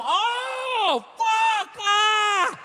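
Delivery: high, loud startled outburst; sudden realization. Pretend. Comic catching himself realizing the truth, startled shout. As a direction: blurt it out as it dawns on you.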